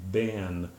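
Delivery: "ban" with the vowel of BEN; been as ban. Shown as a demonstration. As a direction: regional American variant. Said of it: "can pronounce this word as".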